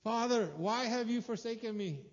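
crying out, high and loud; strained high cry from the cross; anguished cry. Retold or imitated. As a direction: plead upward in despair. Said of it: "And he's like".

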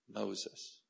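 softly spoken name, kindly; soft, kind call; tender. Shown as a demonstration. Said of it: "it's always tender and always kind".

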